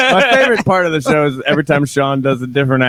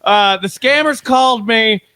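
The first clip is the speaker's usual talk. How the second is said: exasperated explaining; 5 semitones higher, slower than usual. Retold or imitated. Retold scammer explaining, exasperated.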